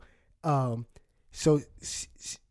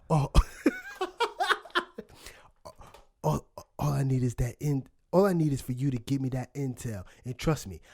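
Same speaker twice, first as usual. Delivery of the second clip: imitating dead serious movie line; 4 semitones lower than usual. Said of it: "he goes very seriously".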